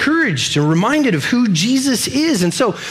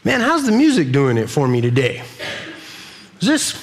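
a touch of mock fussy complaint; picky churchgoer; 2 semitones higher than usual. Churchgoer judging the service like a customer, mild mock griping. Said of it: "we approach it the same way".

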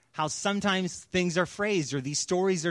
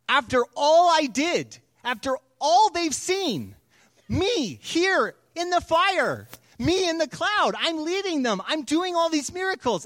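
furious God; 8 semitones higher, 5 dB louder than usual. Acted. God done with the people, furious outburst. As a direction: thunder it out, fed up.

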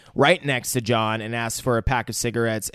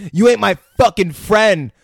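higher, louder mock gangster snarl; mock tough threat; 8 semitones higher, 8 dB louder than usual. Friend retelling John's threat in a loud mock snarl. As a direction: play the hard man, hammed up.

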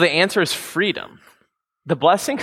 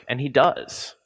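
whispered aside; slower than usual. Real, not acted. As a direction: drop to a whisper for the point. Aside on Paul's view.

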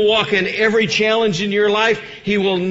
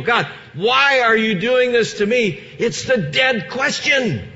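full-force preaching. Acted. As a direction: preach it hard to the congregation.

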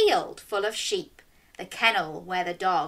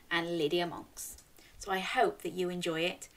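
whisper; 6 dB quieter, faster than usual. Real, not acted. Story intro whispered.

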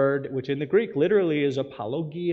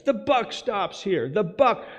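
mock Biden quote; 5 semitones higher, slower than usual. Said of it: "he said it, like, three or four times".

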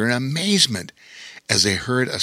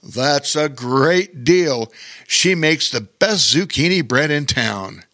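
bellowing laugh; 3 semitones higher than usual. Acted. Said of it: "bellowed out with laughter".

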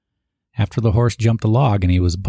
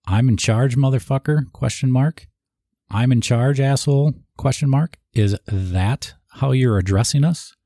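higher-pitched retold chewing-out, spitting the insults; mock angry officer; 5 semitones higher than usual. Ray tears into the staff sergeant, imitated with mock anger. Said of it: "Ray goes".

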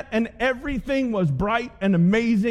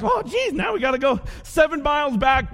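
higher-pitched mock groan of dismay; hammed-up complaint, pitched up; groaning disciples; 4 semitones higher than usual. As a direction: whine it like a tired disciple. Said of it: "they're like".

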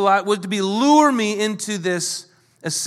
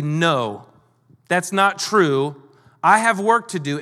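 measured, understated firm refusal; emphatic denial; slower than usual. Acted. Nehemiah answering lies told about him, emphatic denial. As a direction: state it simply and emphatically.

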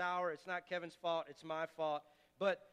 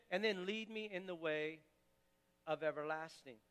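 earnest spoken prayer; 3 semitones lower than usual. Acted.

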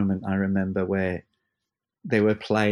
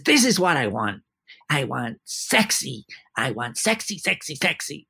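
camp theatrical conductor; 3 semitones higher than usual. Retold or imitated. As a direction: tease it out like a flamboyant maestro. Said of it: "a very theatrical voice, let's say, kind of camp".

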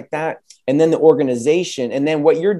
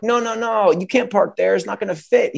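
high, alarmed mock warning from the curb; lightly voiced friends calling no no no; 7 semitones higher than usual. Friends on the curb warn the driver, high mock alarm.

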